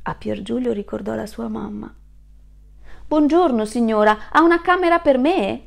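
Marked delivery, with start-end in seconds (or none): 3.0-5.6 a little higher, polite asking voice; lightly voiced hopeful traveller; polite young wolf. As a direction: ask sweetly for a room.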